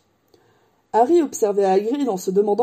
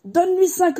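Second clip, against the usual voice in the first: sleepy voice; 10 semitones higher, 3 dB louder than usual. A narrator's reading. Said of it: "d'une voix ensommeillée".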